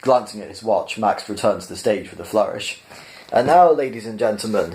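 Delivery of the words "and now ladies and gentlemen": beaming. Acted. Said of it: "he beamed".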